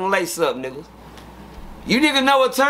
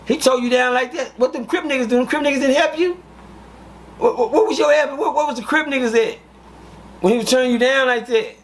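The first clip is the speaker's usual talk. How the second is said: higher-pitched, incredulous questioning; retold disbelief; 5 semitones higher than usual. Questioning the beaten old man about his helpers, retold disbelief.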